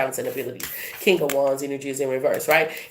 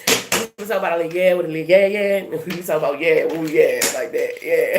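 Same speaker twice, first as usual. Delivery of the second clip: fast, slurred-together Baton Rouge patter; Baton Rouge accent. Shown as a demonstration. Reader imitates chatting with her people, fast Baton Rouge accent. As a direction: run through it quickly in a Baton Rouge accent. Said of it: "if I just talk like how I regular talk".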